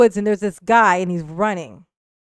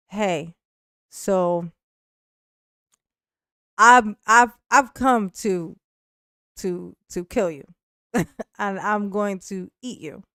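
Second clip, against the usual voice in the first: calm, unhurried imitation of a killer; calmest voice. Pursuer to the man in the tree, eerily calm. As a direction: state the threat gently, with halting pauses. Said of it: "in the calmest of voices".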